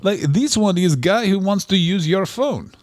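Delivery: late-night European stranger's accent, lightly done; mock European accent. Shown as a demonstration. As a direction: put on a nationless European accent. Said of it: "Here's my accent".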